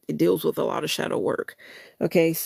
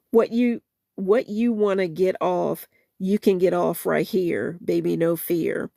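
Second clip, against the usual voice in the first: soulful spoken-word recital of a love song; spoken-word lyric reading. Acted. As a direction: read the song words with feeling, half-performed.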